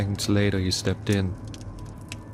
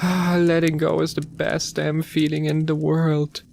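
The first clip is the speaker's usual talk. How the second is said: rambling; 6 semitones higher than usual. A narrator's reading. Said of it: "she rambled on".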